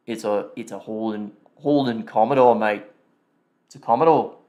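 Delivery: put-on British accent, in and out. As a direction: try a wobbly British accent. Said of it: "little bit of a British accent".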